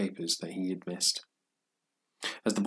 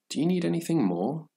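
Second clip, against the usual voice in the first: mildly kind, higher-pitched question; kindly asking; 9 semitones higher than usual. A narrator's reading. Proprietor asking the boy about his order, mildly kind. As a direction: offer more help, voice lifted high. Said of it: "the proprietor asked kindly".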